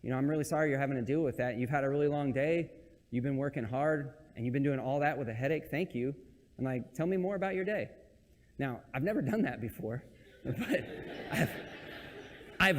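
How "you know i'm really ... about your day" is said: soft, softer caring voice; tender sympathy. Retold or imitated. A husband comforting his wife with a headache, soft and tender. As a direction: comfort her gently, a touch softer. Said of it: "you should actually be like".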